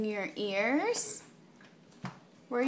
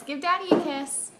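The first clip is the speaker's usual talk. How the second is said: quicker, brighter "Give Daddy a kiss"; eager baby talk; 4 semitones higher, 3 dB louder, much faster than usual. Shown as a demonstration. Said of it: "repeats request to baby".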